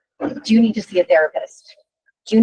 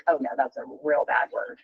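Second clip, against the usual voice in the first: dismayed realization; 8 semitones lower, 8 dB quieter than usual. Retold or imitated. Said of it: "And then I was like".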